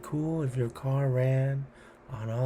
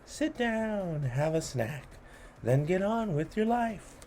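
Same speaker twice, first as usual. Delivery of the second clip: playful rhythmic read-aloud; poem reading. A narrator's reading. Host reading a cheese poem to children, playful. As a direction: lilt through the rhymes for kids.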